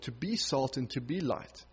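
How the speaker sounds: a hushed question put to the listeners; quiet reflection. Acted. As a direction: let it sink in gently. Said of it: "reflective repeat of phrase".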